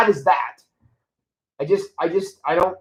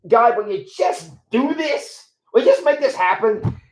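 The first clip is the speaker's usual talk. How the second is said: mock pleading prayer; 5 semitones higher than usual.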